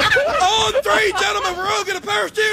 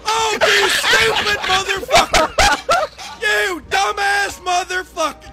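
angry drill sergeant. Pretend. Recruit jumps from plane.

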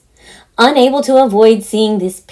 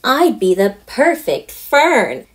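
put-on eager girl; 2 semitones higher than usual. Daughter announcing her audition idea, eager. Heather's eureka moment.

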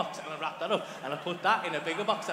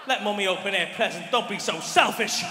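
mock-furious scolding, last words stretched; stern parent yell; 6 dB louder than usual. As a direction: boom orders at the children, hammed up. Dad ordering kids to the couch.

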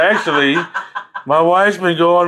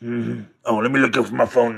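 mock wife voice; 4 semitones lower than usual. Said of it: "she looks at me and goes".

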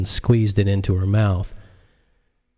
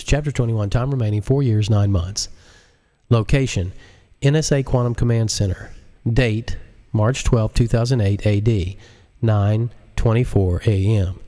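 measured, announcer-like; a touch of formal announcing; chapter heading. Acted. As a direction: read the header like a briefing.

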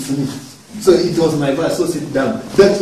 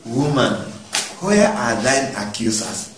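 Woman said lower and softer, tender; gentle; 9 semitones lower, 7 dB quieter than usual. Retold or imitated. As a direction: ease into Woman like a kind question. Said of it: "He wants to handle you in a soft manner".

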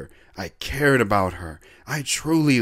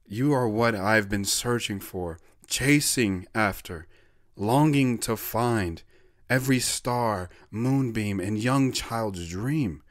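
softer, slow and tender; tender love words; 4 dB quieter than usual. Retold or imitated. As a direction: murmur it close to her ear. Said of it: "we cuddled and I said".

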